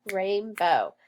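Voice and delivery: "rainbow" clapped out as rain-bow; teacher snapping out syllables; syllables snapped. Shown as a demonstration. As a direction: snap "rainbow" into two beats. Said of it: "Let's snap it".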